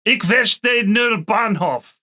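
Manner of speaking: slow careful German; German demo read slowly; slow German phrase. Shown as a demonstration. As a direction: spell the phrase out slowly for learners. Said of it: "you can say".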